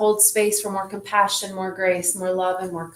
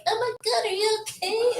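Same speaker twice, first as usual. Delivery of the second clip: high, fluttery alarmed gasp with a laugh; higher pitched panicky fuss, half laughing; mock alarmed concern; 12 semitones higher than usual. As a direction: imitate a flustered woman fussing. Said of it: "the woman yesterday was like".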